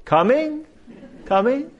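high loud call that fades away down the hall. Retold or imitated. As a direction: call up the stairs, the repeats fading. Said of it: "again he called out".

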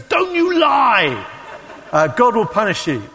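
high, loud, drawn-out shriek, then stern warning; hammed-up outraged telling-off; scolding old woman. Old woman scolds him as liar.

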